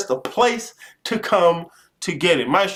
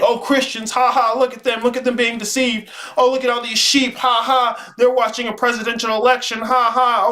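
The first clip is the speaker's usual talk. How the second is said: higher sneering voice with fake ha ha; mock smug gloating; 5 semitones higher than usual. Streamer mocking viewers who laugh at Christians, sneering. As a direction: parody a smug know-it-all.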